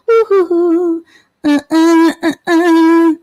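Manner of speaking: high hooting whistle noises; mock whistle. Host hooting while waiting for viewers, playful. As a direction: hoot a playful tune to fill the silence. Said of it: "I'll whistle until somebody says".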